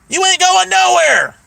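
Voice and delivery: high, scornful comeback; retold mocking dismissal; scoffing retort. Acted retort to her threat.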